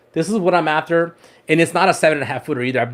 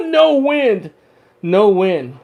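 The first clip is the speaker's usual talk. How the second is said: laughing; 5 semitones higher, much slower than usual. Real, not acted. Laughs about boat rule.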